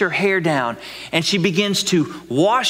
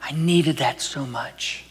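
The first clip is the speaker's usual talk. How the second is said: tearful relief; 5 dB quieter, slower than usual. Pretend. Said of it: "burst out in tears and say".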